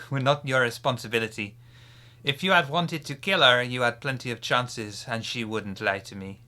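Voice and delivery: put-on terrible French accent. GM as the French clan leader, hammed-up French accent. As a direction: play the vampire lord in a bad French accent. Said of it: "my terrible accent".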